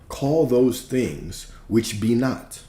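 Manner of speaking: slow, solemn King James reading; mild mock biblical cadence; archaic scripture reading. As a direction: read it slowly like old scripture. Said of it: "They always talk funny".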